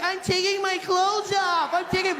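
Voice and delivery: high, slow innocent voice; American woman explaining herself, high and loud. Retold or imitated. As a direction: play the naive tourist. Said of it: "She's like".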